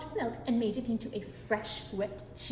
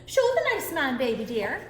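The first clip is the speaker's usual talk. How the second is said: beaming; 4 dB louder than usual. Acted. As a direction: show off the baby proudly. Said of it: "said Una, beaming".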